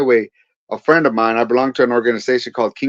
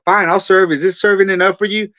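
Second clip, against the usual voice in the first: higher-pitched retold taunt; a touch of defiant mockery toward God; mocking; 4 semitones higher than usual. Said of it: "I'm mocking God in the sense of saying".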